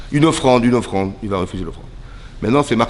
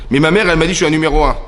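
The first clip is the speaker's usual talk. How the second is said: put-on higher, louder self-important child; childish protest; 3 semitones higher, 5 dB louder, faster than usual. Caïn citing his mother's praise, childishly insistent. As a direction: insist like mother's favourite, pitched up.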